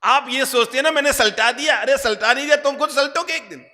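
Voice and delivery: high, loud admonishing preacher; loud rebuke. Real, not acted. Preacher rebukes the listeners' smugness. (ऊँची, तेज़ आवाज़ में फटकार)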